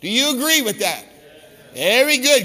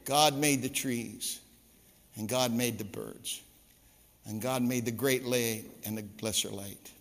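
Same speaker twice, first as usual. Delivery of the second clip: slow explanation; 10 semitones lower, 12 dB quieter than usual. Retold or imitated. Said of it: "I'll go really slow for you".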